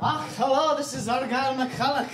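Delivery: hammed-up Scottish phone voice; Argyle McCulloch. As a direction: answer as a comic Scotsman. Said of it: "Argyle McCulloch might have put a big fat Scottish".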